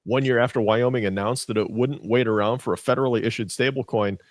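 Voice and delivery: lively scripted news delivery; news read. Acted. Co-host giving the week's economic news, newsreader style. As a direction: read it like a radio news report.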